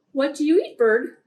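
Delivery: frog asks loudly and brightly; curious frog. Acted. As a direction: ask the bird eagerly. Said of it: "said the wide-mouthed frog".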